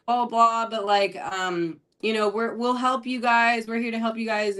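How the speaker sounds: high, sweet and soothing, imitating the bestie; sweet Southern friend. Friend comforting the crying seller, high and sweet. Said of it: "she puts her arm around her and she's like".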